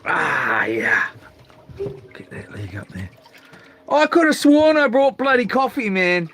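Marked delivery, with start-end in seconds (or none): 3.9-6.3 exasperated. Real, not acted. Frustrated outburst about forgotten coffee.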